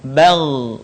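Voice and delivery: Bal ending in a held, thick gh; thick final Gha. Shown as a demonstration. Teacher shows the tongue position, thick-ended Bal. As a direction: raise the back tongue on the end of Bal. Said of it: "pangkal lisan kita angkat ke belakang".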